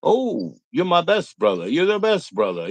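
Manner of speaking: high, sugary fake affection; mock gushing. Mocking internet friends who gush, sugary and high. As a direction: gush over a new online friend. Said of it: "It's always like".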